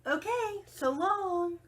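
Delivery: cheerful goodbye. Acted. Rosie bids Hank goodbye while tumbling away, high and cheerful. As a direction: wave her off brightly. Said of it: "Rosie cheerfully said".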